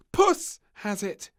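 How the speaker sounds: put-on high, slow child voice; little girl voice. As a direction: blame the cat sweetly. Princess blaming cat.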